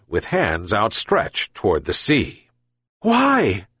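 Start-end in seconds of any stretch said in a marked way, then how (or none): 3.0-3.7 lightly voiced old man, plaintive and high; a hint of a desperate old fisherman. A narrator's reading. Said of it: "complained the old man".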